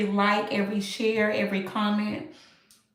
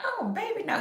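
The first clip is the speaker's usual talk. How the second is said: imitating dad; 11 semitones higher, 8 dB quieter than usual. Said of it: "he gonna be like".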